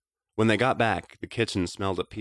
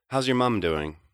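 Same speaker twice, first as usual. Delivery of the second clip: deliberately light tone; 5 semitones higher, 8 dB louder than usual. Acted. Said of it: "using the deliberately light tone".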